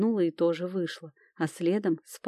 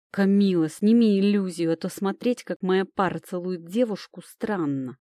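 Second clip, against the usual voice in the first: ворчливо; 3 dB louder than usual. Acted. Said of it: "проворчал демон".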